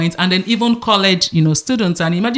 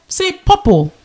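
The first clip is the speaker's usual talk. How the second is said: teacher voice; 11 semitones higher, slower than usual. Retold or imitated. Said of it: "I said".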